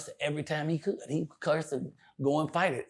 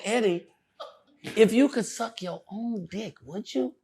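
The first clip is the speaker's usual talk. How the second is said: higher, slow question through a laugh; 7 semitones higher, slower than usual. Retold or imitated. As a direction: ask it while cracking up. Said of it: "And I said".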